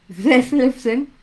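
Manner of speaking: Detlefsen said slowly, syllable by syllable; careful pronunciation. Shown as a demonstration. Teacher to class, slow careful Detlefsen. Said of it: "sigo sin poder pronunciarlo".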